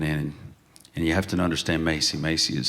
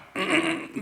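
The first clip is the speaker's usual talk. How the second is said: put-on old man throat clear. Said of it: "make the old man noises".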